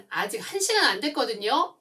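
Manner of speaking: put-on a child turning serious and talking back; stern-faced retort. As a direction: snap back at the parent with a straight face. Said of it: "정색을 하고 얘기를 했대요".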